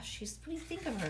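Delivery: plain reading voice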